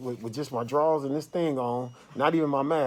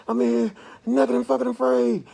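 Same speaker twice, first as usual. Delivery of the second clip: high, loud yell of naked and fucking afraid; panicked hollering; 10 semitones higher, 4 dB louder than usual. Retold or imitated. Man retelling his panic attack, hollering high and loud. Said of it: "I was literally in the room hollering".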